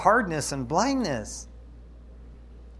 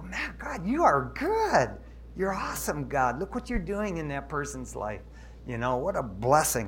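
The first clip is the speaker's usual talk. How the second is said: choked-up, softer thanks to God; tearful praise; 6 dB quieter than usual. Retold or imitated. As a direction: let the voice crack with gratitude. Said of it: "I go".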